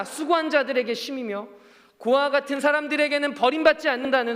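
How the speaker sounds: fervent preacher building point on point; impassioned preaching. Real, not acted. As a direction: proclaim each promise to the congregation. Preacher proclaims in rising list.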